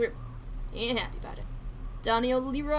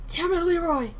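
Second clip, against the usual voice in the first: angry shout; 5 semitones higher, 6 dB louder than usual. Acted. Shouting at the gangster.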